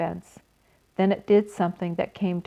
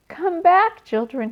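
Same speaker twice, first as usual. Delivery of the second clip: crying out; 10 semitones higher, 3 dB louder than usual. Acted. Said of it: "he cried".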